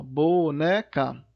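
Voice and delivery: "Boneca" slow, bo, ne, ca; syllable by syllable. Shown as a demonstration. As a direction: spell out "Boneca" in three separate beats. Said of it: "Três sílabas".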